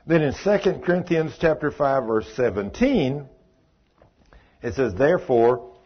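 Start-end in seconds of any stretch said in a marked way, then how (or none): 4.9-5.7 slow, measured Bible reading; scripture reading. Acted. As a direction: read the verse deliberately, like scripture.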